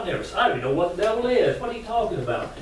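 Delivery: high, quick, baffled protest; indignant protest. Acted. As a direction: protest in high-pitched bewilderment. Alligator protests to rabbit.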